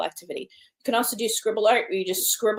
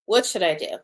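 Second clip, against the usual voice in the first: frustrated, weary question. Pretend. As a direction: ask it fed up and frustrated. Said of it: "My body is feeling frustration".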